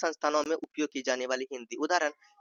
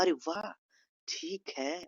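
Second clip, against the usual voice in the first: mildly pleased approval; gentle, demonstrated happiness; happy; 7 dB quieter, slower than usual. Shown as a demonstration. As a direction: agree with soft delight. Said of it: "खुशी के लहजे में इसे".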